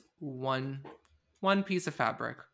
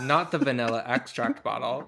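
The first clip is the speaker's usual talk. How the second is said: mock outraged shout; 3 semitones lower than usual. Shown as a demonstration. Reading movie notes aloud to co-host, mock outraged shout. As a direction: shout it out, half laughing. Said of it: "Can you do the same".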